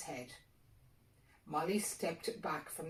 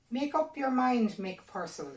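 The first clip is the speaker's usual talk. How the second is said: pushy fairy; 7 semitones higher, 7 dB louder than usual. A narrator's reading. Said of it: "said the little fellow".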